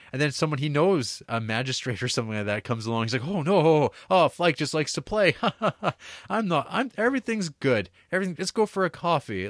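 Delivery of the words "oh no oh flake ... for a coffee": higher, flustered, laughing it off; nervous laughing cover-up. Retold or imitated. Umberto laughing off his shame to the magistrate, flustered and higher. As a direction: bluff brightly through nervous laughter.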